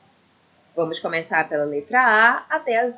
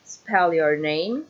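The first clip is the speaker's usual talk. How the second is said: slow demo; 5 semitones lower, much slower than usual. Shown as a demonstration. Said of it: "dois exemplos".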